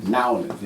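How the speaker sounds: "Nowlins" run together as NAW-linz; local pronunciation. Shown as a demonstration. Repeating the city's local name, "Nowlins" as NAW-linz. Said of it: "That's how they say it down there".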